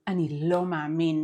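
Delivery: devastated disbelief, weight on "lo". Shown as a demonstration. Teacher shows reaction to devastating news, devastated. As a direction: say "lo" as if crushed by the news. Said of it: "It is devastated intonation".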